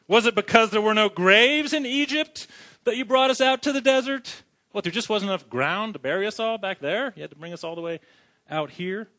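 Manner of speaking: lightly voiced Israelites needling Moses; sarcastic. Israelites mocking Moses about graves in Egypt, sarcastic. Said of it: "You guys hear the sarcasm".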